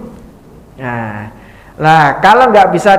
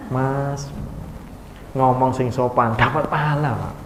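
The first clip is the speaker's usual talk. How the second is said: gentle wife; 3 semitones lower, 8 dB quieter than usual. Retold or imitated. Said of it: "istri ngomong yang baik sama suaminya".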